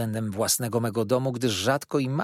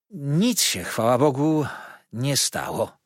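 feigned cheerfulness. Acted. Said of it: "z udaną wesołością".

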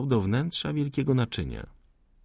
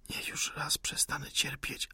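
whispered, crying with pain; suffering whisper near tears; 9 dB quieter than usual. Acted. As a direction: plead for the end through the pain. Wounded man wants pain to end.

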